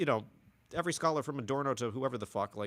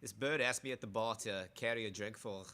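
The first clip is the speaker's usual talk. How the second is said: put-on Scottish accent; 7 dB quieter than usual. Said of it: "that's closer to Irish".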